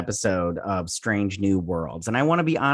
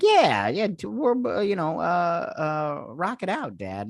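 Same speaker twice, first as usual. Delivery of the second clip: daughter; 6 semitones higher, slower than usual. Retold or imitated. Daughter voiced in retelling.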